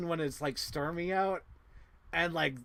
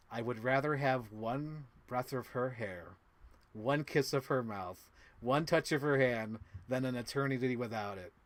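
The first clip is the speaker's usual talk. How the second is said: measured film quote. Acted. Recites the film's romantic line.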